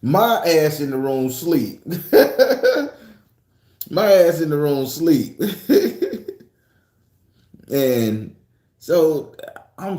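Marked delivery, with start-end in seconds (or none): 3.9-5.4 punchline laughed out, a bit louder; laughing through it. Shown as a demonstration. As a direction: giggle while you repeat it. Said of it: "repeated with a laugh".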